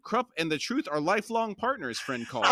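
high-pitched, offended protest; Krupp. A narrator's reading. Krupp defends his honesty to Call, offended and high. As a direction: protest grandly in a lifted voice. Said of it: "Krupp looked offended".

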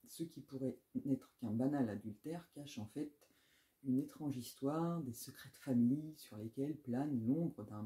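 steady back-cover read, evenly paced; reading a blurb aloud. Acted. Booktuber to viewers, reading the back-cover blurb aloud. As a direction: read the summary like a book presenter.

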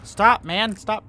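high, loud plea to stop; alarmed protest. Real, not acted. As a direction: cry out high and loud to make him stop. Pleads with game pursuer.

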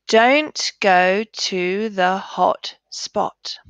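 the whole sentence read as one, slow and clear; read together. Shown as a demonstration. Teacher and pupils reading the sentence together. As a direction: read it right through. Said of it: "read it together now quickly".

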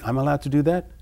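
his typical amazed question; incredulous question. Retold or imitated. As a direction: ask it in disbelief, as if granted permission. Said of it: "one of my main expressions of life would be".

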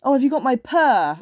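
lightly voiced storybook kitten; little kitten. A narrator's reading. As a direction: call it out as the kitten. Corrects the kitten's line.

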